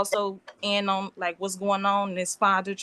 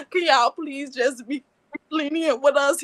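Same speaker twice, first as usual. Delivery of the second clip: tearful plea; 5 semitones higher than usual. Real, not acted. Girlfriend begs the judge for leniency, tearful. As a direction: beg the court through tears. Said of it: "because I'm upset".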